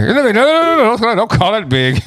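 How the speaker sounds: high, rushed no no no; mock her hurried denial; imitating fast protest. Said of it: "you said too fast".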